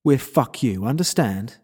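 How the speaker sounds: forceful, curt threat; menacing captor. Acted. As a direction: shut the prisoner down hard. Captor shuts down prisoner's question.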